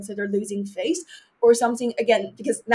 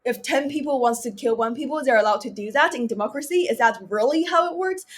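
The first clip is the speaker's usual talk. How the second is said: put-on higher-pitched, wondering child's question; naive question; 3 semitones higher than usual. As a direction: ask it like a curious kid testing an idea. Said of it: "And asking stupid questions".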